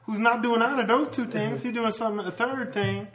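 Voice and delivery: high, loud put-on accent rambling on; Clarence voice. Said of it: "That's a voice I do".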